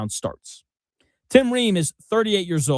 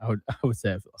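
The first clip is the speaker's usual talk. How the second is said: laughing imitation; 6 semitones lower, 6 dB quieter, much faster than usual. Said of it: "apparently seductive voice".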